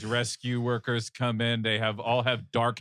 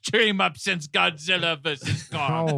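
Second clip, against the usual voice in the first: mock trailer announcer; 5 semitones higher than usual. Pitches mock sequel like a trailer.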